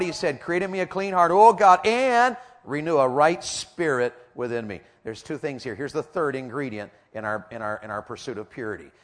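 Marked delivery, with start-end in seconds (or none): 0.4-4.8 fervent prayer. Acted. Preacher voicing David's prayer.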